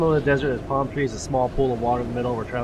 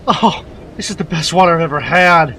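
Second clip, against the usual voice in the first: ecstatic; 9 dB louder than usual. Acted. Ecstatic over the first water.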